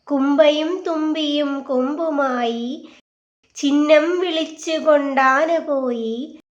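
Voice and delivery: put-on lilting children's verse; children's poem recitation. A narrator's reading. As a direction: recite it line by line like a nursery rhyme.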